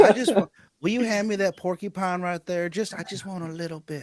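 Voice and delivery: imitated movie woman. Imitating the movie character asking for the porcupine, wheedling. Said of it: "the way she says that".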